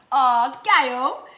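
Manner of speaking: light up at the name; sudden loud delighted oh; delighted surprise. Real, not acted. Spotting a viewer's comment.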